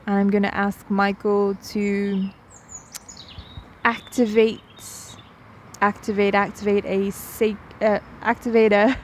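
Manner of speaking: unhurried meditation guide with long pauses; guided meditation. Real, not acted. Guide inviting listeners to settle in, guided meditation voice. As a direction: gently lead them in, leaving space between phrases.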